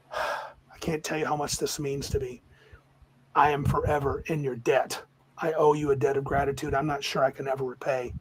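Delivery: softly voiced, grateful old elf; restrained, heartfelt thanks in a subdued voice; solemn gratitude. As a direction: give measured, earnest thanks. Freed elf solemnly thanks his rescuers.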